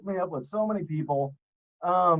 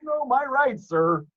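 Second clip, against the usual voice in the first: slow, higher, mock-proper driver; fake polite voice; 5 semitones higher, slower than usual. Host mimicking driver reassuring officer, fake polite voice. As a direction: draw it out with exaggerated courtesy. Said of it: "use it when I get pulled over".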